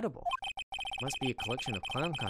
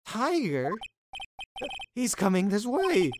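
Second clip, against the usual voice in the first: higher and louder, slow alarmed cry; scared shout; 9 semitones higher, 8 dB louder, slower than usual. Acted. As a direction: cry out as it comes closer. Tiger approaching.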